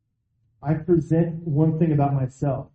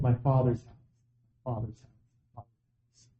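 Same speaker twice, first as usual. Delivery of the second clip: "father's house" said three times, each softer, ending in a whisper; fading to a whisper; 3 semitones lower, 5 dB quieter than usual. Acted. Preacher echoing Jesus' words, fading to a whisper. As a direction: let "father's house" die away to a whisper.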